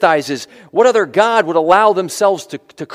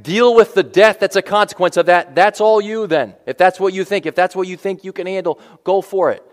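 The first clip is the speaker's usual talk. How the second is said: God's voice; 2 semitones higher than usual. Retold or imitated. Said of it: "Could have said that".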